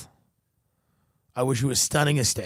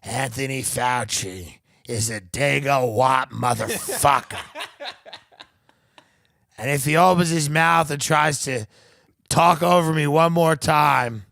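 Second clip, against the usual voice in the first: put-on slurred, slow, laughing drunk rant; a drunk mother ranting to her kid, half laughing; drunk woman ranting; 6 dB louder than usual. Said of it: "she was all drunk".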